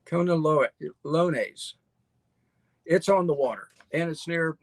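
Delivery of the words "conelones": "Conelones" sounded out very slowly syllable by syllable; careful slow spelling-out. Shown as a demonstration. To viewers after spelling the town name, slow careful "Conelones". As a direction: stretch "Conelones" out, working through each syllable. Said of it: "C O N E L O N E S".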